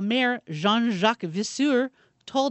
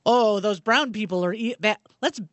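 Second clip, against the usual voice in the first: put-on Belgian accent. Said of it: "Is that your Belgian accent?".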